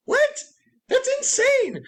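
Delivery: high, incredulous What?; retelling a shocked outburst at Karen; shocked disbelief. Retold or imitated. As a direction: squeal it out in disbelief. Shocked at wedding host's reply.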